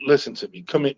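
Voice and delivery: a mother calmly calling her son in, soft and calm. Retold or imitated. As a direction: soothe him quietly like his mother. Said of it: "very calm".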